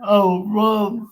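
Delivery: a joking plea to dad, breaking into a laugh; laughing mock plea. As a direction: tease it out while laughing at your own joke. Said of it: "I used to tell him".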